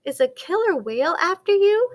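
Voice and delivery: high, loud, quick penguin question; alarmed question. A narrator's reading. Nearest penguin questions the newcomer, alarmed question. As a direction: ask it fast, rising high at the end.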